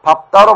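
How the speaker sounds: 밥다 said as 밥따, second consonant sounded; irregular pronunciation. Shown as a demonstration. Teacher explains the irregular rule, giving the spoken form. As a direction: pronounce 밥다 as 밥따. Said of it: "불규칙적으로 발음되기 때문에".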